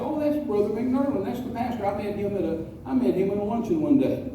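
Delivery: mention it casually in passing. Retold or imitated. Mom to her teenage son in the car, casual. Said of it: "just casually".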